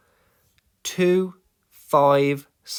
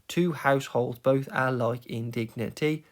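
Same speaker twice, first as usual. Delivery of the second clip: "two households, both alike in dignity" syllable by syllable; syllable counting. Shown as a demonstration. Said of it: "if you count the syllables".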